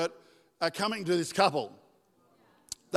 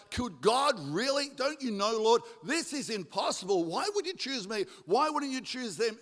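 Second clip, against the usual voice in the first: doubting protest; 4 semitones higher than usual. Acted. Acting a struggling believer doubting God.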